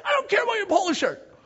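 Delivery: high, loud exasperated yell; mock angry retort. Leaders answer crying kids, high exasperated shout. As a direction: yell back over the wailing.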